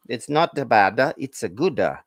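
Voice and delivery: hammed-up mock Italian accent, lightly done; a joking stab at an Italian accent; a hint of an Italian accent for the cheese pun; terrible Italian accent. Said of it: "terrible Italian accent".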